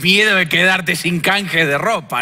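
devilish taunting voice; diabolical voice. Acted. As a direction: let a demon speak through the question. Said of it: "esa voz diabólica que aparece".

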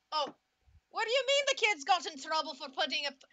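put-on beam with pride over the kids' mischief; proud TF2 dad.

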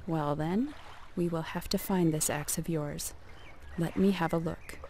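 soft, composed reply; calm goddess. Acted. Lake goddess offering to look for the axe, calm and soft. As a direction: answer gently and quietly, with calm authority. Goddess calmly agrees to help.

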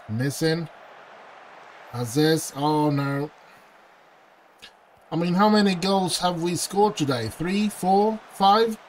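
ordinary talk

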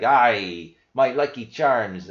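loud, slow, badly faked Irish-Scottish accent; botched Irish dwarf voice, drawn out and loud; Viking-like Irish accent. Vlogger retries the mascot thinking of dwarves, Viking-like Irish accent. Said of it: "that sounds more like a Viking".

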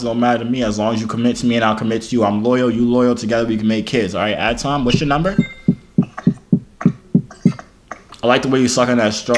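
a light put-on country accent while flirting. Flirting with a stranger on video chat, in a country accent. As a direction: lay on a lazy Southern country accent, smooth talker. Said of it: "country accent sucks".

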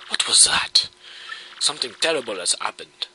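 lightly put-on Russian accent; bad Russian accent. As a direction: try a clumsy Russian accent. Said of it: "that was a horrible Russian accent".

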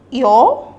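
yo as a rounded eh; Ö with rounded lips; German Ö. Shown as a demonstration. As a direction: model umlaut O. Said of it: "Then it is pronounced as".

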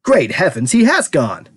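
startled shout, rising high. A narrator's reading. Father seeing his son has vanished, shouting. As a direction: shout it out in alarm. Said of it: "shouted Mister T V".

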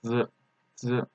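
short isolated buzzed "z"; careful pronunciation demo. Shown as a demonstration. Teacher warns learners to be careful, short exact "z". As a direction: give "z" as a brief separate syllable. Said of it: "And careful".

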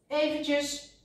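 high, hesitant little voice; trembling voice. A narrator's reading. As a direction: let the word tremble after a pause. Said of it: "Otjes stem begon te trillen". (met trillende stem)

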